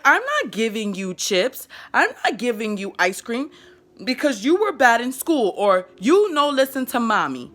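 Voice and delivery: slow broken English, firm; simple child talk. Shown as a demonstration. Mother refusing snacks to a misbehaving child, simple firm words. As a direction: deny the treat in toddler words. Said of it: "I have to slow things down".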